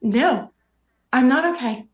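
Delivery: fighting back tears while retelling; emotional, near tears. Real, not acted. Guest telling the host about the vaccine day, near tears. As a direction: voice tight with real emotion, close to crying. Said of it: "See, I get emotional again".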